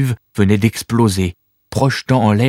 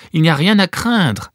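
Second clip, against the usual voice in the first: reassuring; 9 semitones higher than usual. Acted. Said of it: "tenta de la rassurer Corvus".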